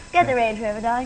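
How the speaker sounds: put-on Sloane Ranger accent, lips barely moving; posh young London drawl. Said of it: "Can you do the English accents?".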